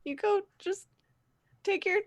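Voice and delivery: put-on high, halting boy voice; timid young guide. Roger directing the party after a scolding, timid high voice.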